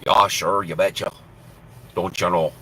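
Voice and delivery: lightly put-on Minnesotan accent; hammy Minnesotan folksiness. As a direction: play up a Minnesotan accent a little. Jokes in Minnesotan dialect.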